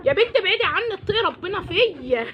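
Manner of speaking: loud pleading yell, slow end; loud scolding. Acted. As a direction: shout it at the hen. Yelling at chicken.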